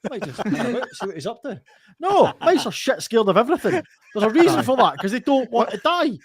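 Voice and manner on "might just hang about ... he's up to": naive mouse voice. Acted. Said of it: "a mouse ... goes".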